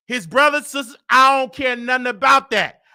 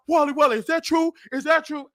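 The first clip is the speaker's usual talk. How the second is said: out of breath; 4 semitones higher than usual. Retold or imitated. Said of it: "She was out of breath".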